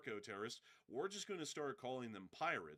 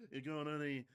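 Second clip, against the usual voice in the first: pirate character voice; 3 semitones higher, 4 dB louder than usual. Retold or imitated. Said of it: "I tell you".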